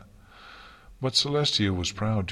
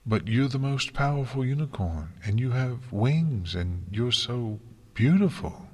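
little pony voice, raised; eager young unicorn, stammering; stammering filly; 5 semitones higher than usual. Acted. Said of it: "the little unicorn stammered".

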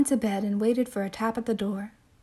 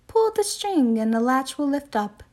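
put-on old lady voice; 3 semitones higher, 3 dB louder than usual. Old lady in read story.

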